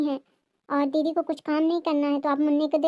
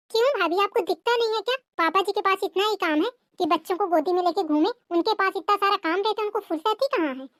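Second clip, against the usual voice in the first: higher voice, mocking the daughter-in-law; high, scornful sister-in-law taunt; 4 semitones higher than usual. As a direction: sneer at her excuses in a high voice. Sister-in-law defending father.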